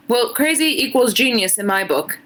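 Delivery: put-on a shaky try at an Irish accent, drifting British; reading fan fiction aloud in a so-so Irish lilt; attempted Irish accent. Streamer reading fan fiction to chat, in a struggling Irish accent. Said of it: "but read in an Irish accent".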